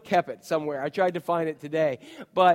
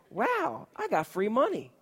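excited; 6 semitones higher, 5 dB quieter than usual. Retold or imitated. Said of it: "So I was excited".

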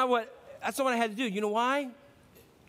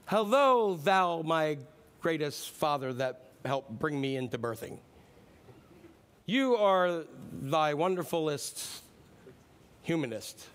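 mock formal prayer; slower than usual. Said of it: "I didn't say".

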